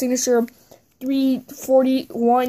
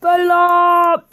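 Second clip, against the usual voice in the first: high, loud mock wrestler shout; Sheamus; 5 semitones higher, 6 dB louder than usual. Slightly better twin kicks his rival, loud catchphrase shout. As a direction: punch out the catchphrase, held a little shorter. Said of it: "slightly better Sheamus".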